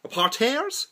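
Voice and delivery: "parterres" echoed as a high, rising "par-tairs"; questioning odd pronunciation. Real, not acted. Vlogger puzzled by his own word "parterres", said "par-tairs" with a rising question. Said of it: "I don't know why I said it like that".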